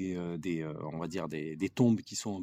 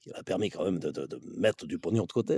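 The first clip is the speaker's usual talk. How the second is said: Alain Juppé impression; 2 semitones lower than usual. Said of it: "hein, monsieur Juppé".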